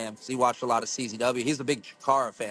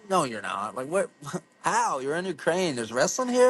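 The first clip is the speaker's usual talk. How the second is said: disbelief; 4 semitones higher than usual. Retold or imitated. Retelling his disbelief at the gym guy.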